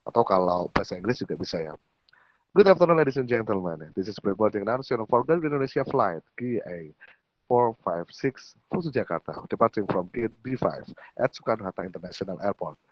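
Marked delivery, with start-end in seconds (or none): 2.6-12.8 English pre-boarding announcer lilt; airport announcement. Shown as a demonstration. Coach showing English boarding call, announcer intonation. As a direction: announce the flight over the airport speakers in English. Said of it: "Ya kayak gitu".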